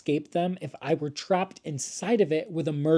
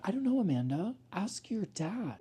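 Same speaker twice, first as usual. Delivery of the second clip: sassy retort; 6 semitones higher, 4 dB quieter than usual. Retold or imitated. Teacher's sassy retort to kid.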